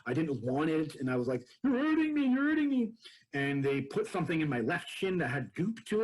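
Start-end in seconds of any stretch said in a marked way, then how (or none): 1.6-2.9 high, loud pleading wail; desperate plea, much higher and louder; retold hysterical cry. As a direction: cry it out in pain, panicking. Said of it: "state of hysteria".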